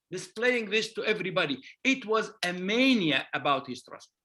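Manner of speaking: normal talking voice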